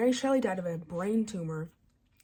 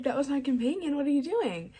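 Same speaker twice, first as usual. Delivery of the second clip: higher, mock-outraged complaint; pissed-off monster; 6 semitones higher, 4 dB louder than usual. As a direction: protest like a wronged monster, jokingly. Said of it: "The monster's pissed".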